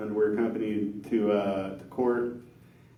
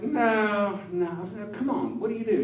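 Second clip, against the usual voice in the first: mock insisting man; 9 semitones higher than usual.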